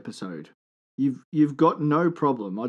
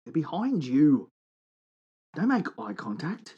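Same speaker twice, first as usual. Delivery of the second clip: mock spooky warning. Spooky warning about paddy melons.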